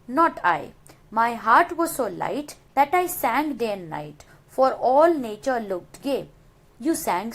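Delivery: steady recited verse; teacher reading a poem to the class; poem recitation. Shown as a demonstration. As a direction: read the lines as a poem. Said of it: "Now the third stanza".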